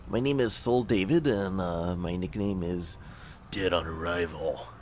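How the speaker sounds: put-on soldier voice, slowing into the nickname; soldier introducing himself. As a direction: introduce yourself in character, dragging out the nickname.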